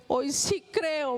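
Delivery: very slow, weighed words; the mother repeating her belief, slowly; slow repeated confession. Retold or imitated. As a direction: draw out hoy sí creo. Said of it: "me dice".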